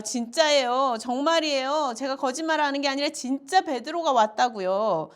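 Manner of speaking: imitating a girl pleading to be believed; insistent protest. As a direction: insist on it as the disbelieved messenger.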